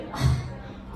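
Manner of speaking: heavy put-upon mom sigh; weary sigh. Retold or imitated. Mom sighing at her daughters, weary sigh. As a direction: sigh out the years of crafts. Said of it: "she just sighs".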